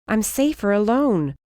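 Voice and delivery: voice cracking. Acted. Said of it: "my voice cracking with the words".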